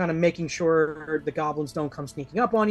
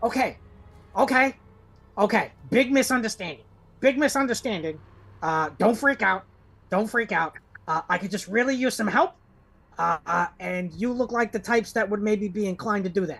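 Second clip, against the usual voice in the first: high little fluttering winged-creature voice; 5 semitones higher than usual. Voicing a tiny fluttering creature holding a knife, asking the party for help: voicing a tiny fluttering creature. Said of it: "he's just kind of listening".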